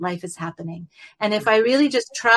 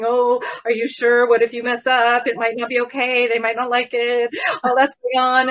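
a lightly voiced nagging inner doubter, higher; monkey mind; 3 semitones higher than usual. The monkey mind doubting her, lightly voiced and fretful. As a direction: needle yourself with worried doubts. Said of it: "monkey mind in there is going".

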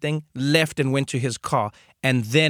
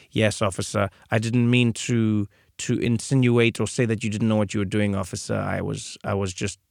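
meek driver; 4 semitones lower than usual. Retold or imitated. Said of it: "I was very much like".

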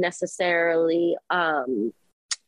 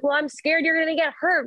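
scared inner part; 8 semitones higher, faster than usual. Shown as a demonstration. Voicing the scared fight part.

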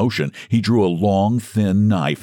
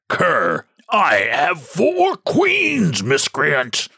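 high, slow, shouted fury; furious shout; 8 semitones higher, much slower than usual. A narrator's reading. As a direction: roar out the four queens. Hermit raging, voice grows mighty.

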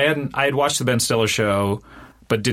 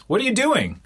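high-pitched, incredulous mock call; retold shout; 12 semitones higher than usual. Comedian calls to friend in the wrong line, mock shout. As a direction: call it over pitched up, at talking volume. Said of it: "he shouts at me".

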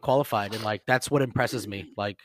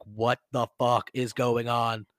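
slow, stunned disbelief; imitating dazed newcomers; wide-eyed bewilderment; slower than usual. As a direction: spell it out word by word, dumbstruck. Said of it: "so wide-eyed".

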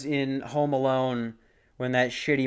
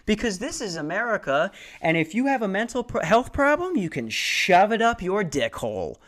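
mock sponsor pitch, rising higher and angrier; bitter mock commercial, building to a higher rant; sarcastic ad read; 4 semitones higher than usual. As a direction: parody an ad read that turns into a rant.

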